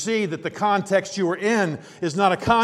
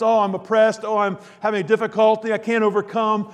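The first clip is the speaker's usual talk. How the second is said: higher-pitched, hammed-up complaining; mock self-pity; 4 semitones higher, 4 dB louder than usual. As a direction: imitate someone wallowing in their troubles. Mocking self-pitying complainers.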